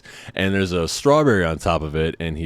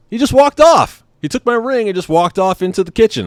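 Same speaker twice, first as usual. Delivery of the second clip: high and loud, still amazed; telling it as if it just happened; disbelief; 7 dB louder than usual. Real, not acted. Telling the audience the waiter took the ring, in high loud disbelief.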